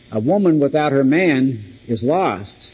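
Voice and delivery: "without her man" kept as one group, no break after "her"; one unbroken phrase. Shown as a demonstration. Preacher showing one meaning of the sentence, phrased straight through. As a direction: run "woman without her man" together, then "is lost". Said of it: "you can put the emphasis upon different words".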